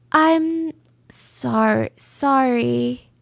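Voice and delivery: halting, broken-up mock apology; practiced apology. Suspect rehearsing sorry for interrogator, halting and practiced. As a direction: test the word, break, retry. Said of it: "She was practicing which version".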